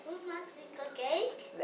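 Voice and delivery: questioning expression. Shown as a demonstration. Teacher asks for expression, child reads as a real question. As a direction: read it as a real question, rising at the end. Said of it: "read it again with expression".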